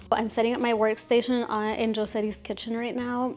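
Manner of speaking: pills under the tongue; tablet under tongue. Real, not acted. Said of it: "Sorry, I'm talking funny".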